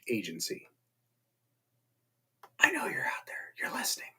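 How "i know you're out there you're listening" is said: eerie unvoiced whisper to the viewers. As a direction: breathe it like a spy who knows you're watching. Creepy aside to the viewers.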